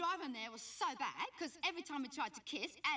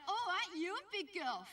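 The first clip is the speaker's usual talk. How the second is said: higher-pitched cooing grandma impression; mock a nana fussing over a grandchild; doting nana; 5 semitones higher than usual. Nana greeting grandchild, mimicked.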